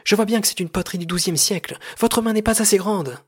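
high, loud, heated insistence; shouted accusation. Acted. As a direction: shout back at the director. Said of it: "cria Paul".

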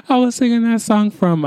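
high-pitched, giggly restart of the sentence; laughing while talking. Real, not acted. Podcaster recalling being recorded singing, laughing. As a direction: laugh through the words, pitch jumping up. Breaks into laughter mid-story.

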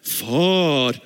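a distant, formal «Far», said flatly and stiffly; stiff formal father. Shown as a demonstration. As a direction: say «Far» like a cold, dutiful title. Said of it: "Ikke sånn derre".

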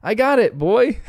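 high-pitched mock yell, not very loud; imitated yell. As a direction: mimic a dad calling as he runs.

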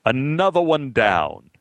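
slow, grand theatrical pronouncement; old actor grandly proclaiming to the dressing room; grand exclamation. Retold or imitated. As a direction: declaim another one down like an old stage ham. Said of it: "exclaimed grandly".

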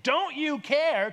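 loud, high, drawn-out cry; anxious yelling. Acted. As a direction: yell it over wind and waves. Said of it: "some anxiety in their voice".

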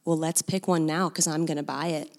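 low, soft, matter-of-fact retold offer; dead serious. Man offering to buy her a tent, quietly dead serious. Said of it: "he just looks at me dead serious".

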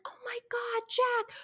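very high, soft girlish imitation; Chrissy. Co-host imitating the blonde thanking her roommate, melodic high coo. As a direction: mimic a melodic sitcom blonde, high and light. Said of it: "like, melodically".

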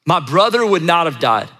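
pleading cry that starts high and falls; emotional, not calm. Acted. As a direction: act out a grieving sister's reproach. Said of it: "said this with a lot of emotion".

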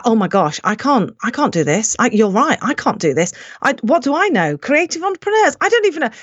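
re-enacted panic, climbing in pitch toward the end; retold panic. Speaker panicking before her conference talk, retold panic. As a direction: act out rising self-doubt in broken restarts. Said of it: "physical reaction to panic".

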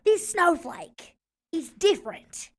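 slow, earnest, mock-profound musing. Munder lecturing Keith on snowflakes, slow and mock-profound. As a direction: deliver it like a grand revelation, slowly.

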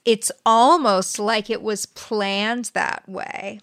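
mock-pondering, slowly drawn out; facetious. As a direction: imitate his coy insinuation, stretching the words. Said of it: "He says that facetiously".

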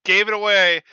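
high, loud, sparkly camp voice; flamboyant voice. Pretend. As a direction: gush it out theatrically. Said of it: "and be like".

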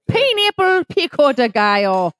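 a light Irish lilt on "pineapple pico de gallo"; sudden Irish accent. Pretend. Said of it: "I don't know why I'm Irish".

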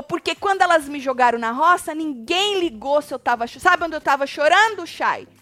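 loud, high imitation with a shout; mock outraged housemate. Host imitating Kali to co-host, loud high mock rant. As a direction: ham up her indignation, loud and high.

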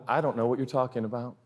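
feigned innocence. Retold or imitated. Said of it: "I go".

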